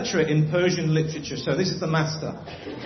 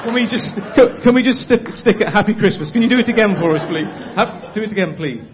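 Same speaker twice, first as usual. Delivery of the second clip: calling out; 3 semitones higher, 9 dB louder than usual. Real, not acted. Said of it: "calling to the room to repeat".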